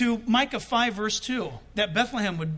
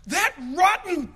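mock cussing; 7 semitones higher, 6 dB louder, slower than usual. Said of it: "he starts cussing him out".

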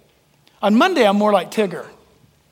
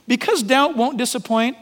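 sarcastic. Shown as a demonstration. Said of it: "I'm being sarcastic with you".

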